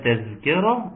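"تذكرة" with a wrong z sound for the ذ; dhal turned zay. Shown as a demonstration. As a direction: put a ز where the ذ of "تذكرة" belongs. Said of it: "شال الذال وحط ازاي". (نطق "تذكرة" خطأ بالزاي مكان الذال)

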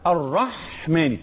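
الرحمن slowly, lingering on the breathy ح; slow الرحمن with an audible Haa; husky Haa. Shown as a demonstration. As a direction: draw out the throat friction of ح in الرحمن. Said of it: "إذن الحاء تتميز بالبحة".

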